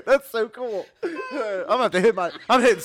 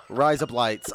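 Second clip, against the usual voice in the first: laughing through it; 10 semitones lower, slower than usual. Shown as a demonstration. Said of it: "That's insane".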